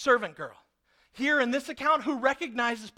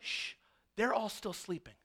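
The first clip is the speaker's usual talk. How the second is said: hushed angel; 2 semitones lower, 8 dB quieter than usual. Pretend. Angel hushing sleeping prisoners.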